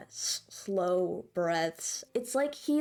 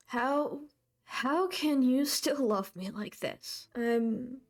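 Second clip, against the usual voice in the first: tearful confession. Acted. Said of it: "he's still crying".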